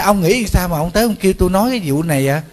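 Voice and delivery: quick exasperated challenge; incredulous retort. Retold or imitated. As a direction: throw the question back in disbelief. Monk retorts to husband's absurd request.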